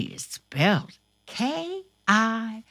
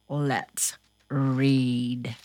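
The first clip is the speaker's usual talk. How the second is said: hushed whispered invitation; 9 semitones lower than usual. Acted. Host inviting friends to read together, whispered.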